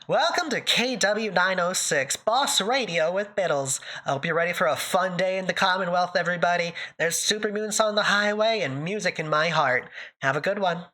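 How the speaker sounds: lightly voiced radio host, upbeat. Streamer playing a radio host for chat, upbeat DJ voice. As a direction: play a cheery morning DJ.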